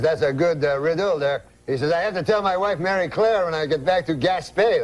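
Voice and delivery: put-on comic Frenchman uncle accent; French-Canadian accent. Uncle tells cab driver he loves riddles, French-Canadian accent. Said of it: "That's how he talks".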